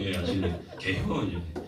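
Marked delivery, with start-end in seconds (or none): 0.8-1.3 amused Chungcheong accent; short, laughing Chungcheong dialect. Shown as a demonstration. Preacher giving the quiz answer, amused Chungcheong accent. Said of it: "충청도 말로 뭐라고 하나요?".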